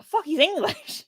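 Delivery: high, slow stunned realization; mock shock. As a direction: act out the discovery, drawn out. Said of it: "Googled him and was like".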